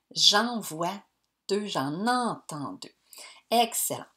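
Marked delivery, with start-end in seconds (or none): 3.5-4.1 a hushed, pleased Excellent; whispered praise. Acted. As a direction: whisper it like a secret compliment.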